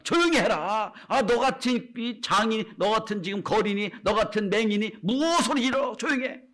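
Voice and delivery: scolding crowd. Retold or imitated. Crowd scolds the blind beggar Bartimaeus, lightly mocking rebuke. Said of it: "사람들이 얘기합니다".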